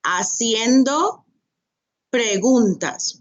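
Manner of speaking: Haciendo said with no H sound, asjendo; silent H. Shown as a demonstration. Teacher modelling Haciendo for students, slow and careful. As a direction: drop the H in Haciendo. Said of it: "Remember, the H is silent".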